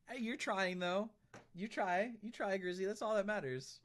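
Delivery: bright pep talk for a struggling friend; excited encouragement. Real, not acted. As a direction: pump the viewer up, you can do it. Cheering on a viewer.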